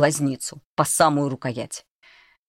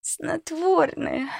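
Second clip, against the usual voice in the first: much higher, very slow creaking crone; creaky old voice; much slower than usual. Acted. Old cook confesses the sleeping draught, creaky. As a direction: creak it out slowly. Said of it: "проскрипела кухарка".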